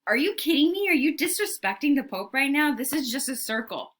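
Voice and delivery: high, loud incredulous outburst; outraged disbelief. Retold or imitated. Papal envoy scoffing at a circle, indignant. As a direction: bristle with offended disbelief.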